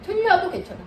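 a light, reassuring "틀려도 괜찮아"; gentle reassurance. Shown as a demonstration. Tutor showing mothers how to comfort the child, gently. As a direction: tell the child it's fine, kindly. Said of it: "계속 얘기하셔야 돼요".

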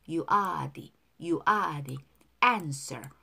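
"the" linked as "di" before answer. Shown as a demonstration. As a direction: run "You are the" together, "the" as di. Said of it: "D로 발음해요". ("the"를 "디"로 이어서 발음)

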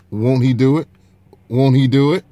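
triumphant. Real, not acted. Repeats triumphant catchphrase.

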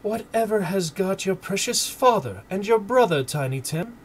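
high, anxious mother's exclamation; exclaiming mother. A narrator's reading. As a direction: call out like a worried mother. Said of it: "exclaimed Missus Cratchit".

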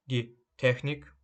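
die Technik with the first syllable, TECH, stressed and drawn out slowly. Shown as a demonstration. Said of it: "наголос на е".

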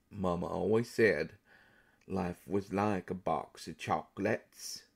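slow, low character voice; famous film character impression. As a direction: quote the movie line slowly, drawn out and low. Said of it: "you knew exactly, exactly who that was".

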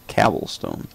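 "cobblestone" said as "cabblestone"; "cobblestone" with the first vowel of cab; joke mispronunciation. Shown as a demonstration. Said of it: "That's how you say it".

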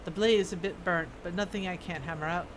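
lightly voiced dwarf smith, matter-of-fact; a hint of a kindly craftsman handing over work; dwarf smith character.

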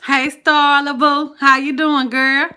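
excited greeting. Real, not acted. Host greets a viewer joining the stream, excitedly. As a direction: call out to a friend arriving in the chat.

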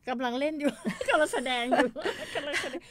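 laughing. Real, not acted. Co-host laughing about the show.

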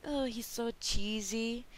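mocking viewers. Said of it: "lots of people say that".

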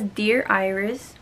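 slow, deliberate "Dear Iris" with each word drawn out; careful slow reading. Shown as a demonstration. Rereading the book's inscription after a flub, slow and careful. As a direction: read "Dear Iris" slowly and carefully, rising at the end.

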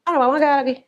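whiny complaint. Acted. Girlfriend complaining again.

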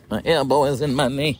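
teasing parrot of a complaint; mocking echo. Co-host parroting the elbow complaint, mocking echo. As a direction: echo it back to tease. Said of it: "Quit mocking".

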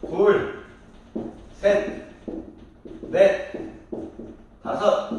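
counting out one word at a time. Shown as a demonstration. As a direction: separate each number with a long pause. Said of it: "이렇게 읽으실 수도 있어야 됩니다". (한 단어씩 사이를 두고 또박또박 읽기)

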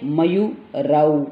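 मयूरौ said slowly, the औ ending stretched; slow teacher pronunciation. Shown as a demonstration. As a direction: draw out मयूरौ for the students. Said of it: "मयूर word होता है".

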